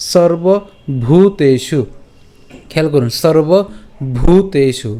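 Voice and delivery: slow "সর্বভূতেষু" with a long breathy bh in ভূ; aspirated bhu. Shown as a demonstration. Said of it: "ভূ উচ্চারণ করছি".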